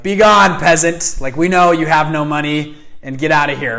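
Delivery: loud, high, hammed-up banishing; mock haughty dismissal. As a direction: send the lowly visitor away with theatrical volume. Imagined snooty dismissal at door.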